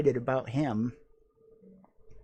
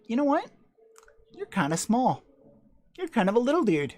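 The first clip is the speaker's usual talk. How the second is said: talking down to figure; 9 semitones higher, 4 dB louder, faster than usual. Retold or imitated. Talking to small Krampus figure.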